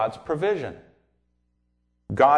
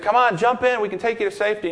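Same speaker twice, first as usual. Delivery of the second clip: motorboat rescuers; 7 semitones higher, faster than usual. Retold or imitated. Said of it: "they said".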